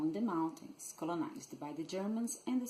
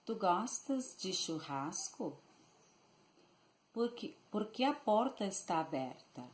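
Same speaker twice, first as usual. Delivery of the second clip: Rio Grande do Sul gaúcho accent. Shown as a demonstration. Teacher showing learners how gaúchos say sentences, gaúcho accent. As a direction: say it like a gaúcho from southern Brazil. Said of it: "how a gaúcho would say these sentences".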